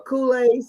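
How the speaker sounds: "Kool-Aid" ending in an s sound; old mispronunciation. Shown as a demonstration. Showing how I would say it, mispronounced "Kool-Aid". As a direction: swap the last d of "Kool-Aid" for an s. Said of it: "I, I would say".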